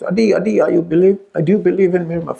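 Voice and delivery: high, insistent retold call. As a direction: keep calling his name, pressing. Repeating the call.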